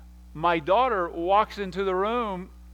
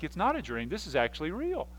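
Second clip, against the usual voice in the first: softly acted dawning awareness; dazed realization; 6 dB quieter than usual. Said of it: "He's so out of it".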